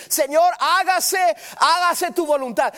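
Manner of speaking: "hágase" repeated high and loud, pressing; urgent prayer cry. Shown as a demonstration. Preacher modelling an instant surrender prayer, loud and high. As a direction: cry out "hágase tu voluntad" at once. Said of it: "al instante decir".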